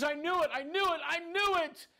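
high, anguished cry rising in pitch; acted sobbing outcry. Mother hearing of her son's arrest, acted distraught cry. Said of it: "She started to sob".

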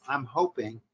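light, understated emphasis on "hoping"; stress on hoping. Shown as a demonstration. Coach repeats the opener for students, lightly stressing "hoping". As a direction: lean gently on "hoping". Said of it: "emphasis on the word hope".

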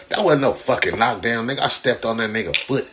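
ordinary talk

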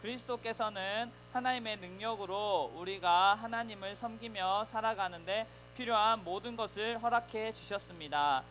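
slow, measured Bible reading aloud; scripture reading. Real, not acted. Pastor reading the verse aloud with the children, slow and measured. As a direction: read it out together, steady and slow. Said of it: "같이 읽어봐요".

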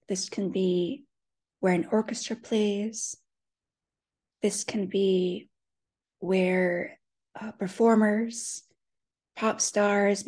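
unhurried meditation guiding with long pauses; guided visualization. Acted. Guide leading listeners into an empty stadium, unhurried meditation voice. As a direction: paint the scene phrase by phrase, leaving space between.

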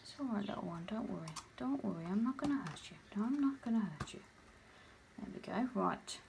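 soft, hushed reassurance to a frightened pet; quiet comforting murmur to the spider; soothing. Real, not acted. Soothing a nervous new spider.

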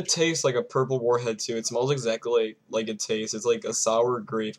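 talking around held mouthpiece; mouthpiece in mouth. Real, not acted. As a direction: lips closed on tip. Seen 1: Tan mouthpiece tip held between lips through most of the words.

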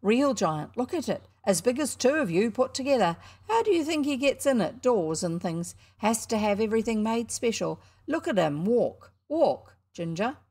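high, loud showman patter; a cocky boy hawking his show; boy barker at a penny show. Acted. Showman presenting the giant.

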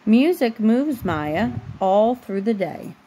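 slow, even storybook reading; reading to a child. A narrator's reading. Mom reading a bedtime book to her daughter, slow storybook voice. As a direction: read the picture book aloud, unhurried, for a little one.

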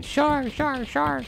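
high screams of panic; hammed-up frightened beachgoers yelling; mock scream. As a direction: shriek it like scared swimmers.

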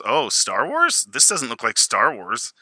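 slow "Star Wars?" rising in mild disbelief; a hint of a teenager unconvinced; doubtful daughter. Daughter doubts her dad's show, slow and mildly incredulous. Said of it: "And she goes".

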